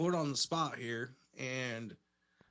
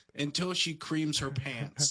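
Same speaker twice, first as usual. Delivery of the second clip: ordinary talk, nothing marked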